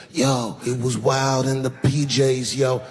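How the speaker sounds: slow, lightly voiced street rapper; rapper from the projects. Rappers talking about the projects, light imitation. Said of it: "these motherfuckers will start talking about the projects".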